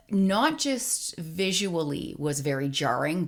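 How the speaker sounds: usual speaking voice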